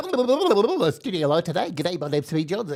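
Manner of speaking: rapid put-on presenter voice. Recalling how Pete Johns opened on camera, fast-talking Pete Johns impression. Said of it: "Pete used to talk really fast".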